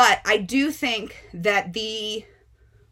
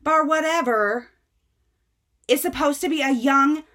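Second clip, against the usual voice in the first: mocking irate mom; 7 semitones higher than usual. Mother scolding bookseller for selling her daughter the book, high and mocking. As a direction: ham up the furious mom, slowing at the end. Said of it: "And she's like".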